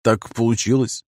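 vague, slow, noncommittal reply. Acted. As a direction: shrug it off, give nothing away. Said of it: "неопределённо ответил я".

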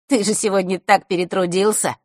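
lively, lightly mocking jab; joking tease. A narrator's reading. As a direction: tease a friend about overworking. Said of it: "пошутил Лёшка". (шутливо, с подколкой)

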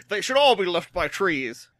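a lightly put-on imitation of Leroy, half laughing; a hint of a silly impersonation; mock Leroy voice. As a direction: toss it off like a mocking impression. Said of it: "He's like".

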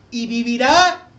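emphatic. Acted. Preacher reads promise emphatically.

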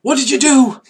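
loud, high-pitched cry of alarm; panicked bandit. Acted. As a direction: wail in horror, voice shooting up. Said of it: "the bandit goes".

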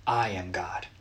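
reverent whisper; whispered, solemn declaration. Retold or imitated. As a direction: breathe it like a holy secret. God's words, whispered.

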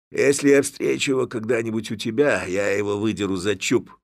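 lightly voiced threat; threatening father. A narrator's reading. Father warns Hanna about Levko, menacing.

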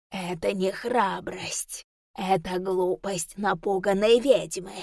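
slow, looming inhuman voice; eldritch horror. Acted. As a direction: drag each word out like a thing from the dark. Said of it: "прогудел в голове нечеловеческий голос".

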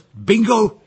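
detective hits on the suspect, triumphant; triumphant bingo. Acted. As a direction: cry out as the case cracks. Detective realizes he's found her.

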